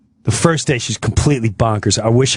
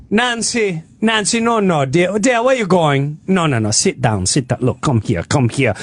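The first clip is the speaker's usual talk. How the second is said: lightly imitated Jamaican caregiver; mock Jamaican accent; 3 semitones higher than usual. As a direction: coax in a put-on Jamaican accent. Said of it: "the Jamaican woman's going".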